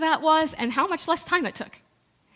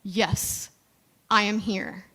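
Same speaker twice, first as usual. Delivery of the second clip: booming voice of God; 4 semitones lower, slower than usual. Retold or imitated. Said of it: "a voice booming comes".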